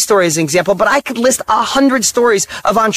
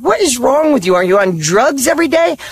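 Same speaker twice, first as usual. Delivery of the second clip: raised-pitch mock disbelief; incredulous; 5 semitones higher than usual. Coworkers to an oddly happy mechanic, incredulous. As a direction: question them as if they were insane. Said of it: "looked at me like I was insane".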